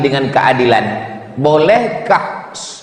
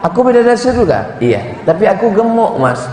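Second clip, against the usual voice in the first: higher coy question; coy wife; 4 semitones higher than usual. Retold or imitated. Wife to husband, higher and coy. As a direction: fish for more praise.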